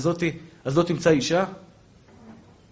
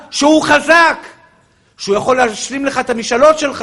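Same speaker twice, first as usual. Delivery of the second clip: loud, high fervent preaching; impassioned sermon shout; preaching at full force; 8 semitones higher, 9 dB louder than usual. Acted. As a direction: keep pounding the crowd at full voice. Preacher sustains full-force delivery.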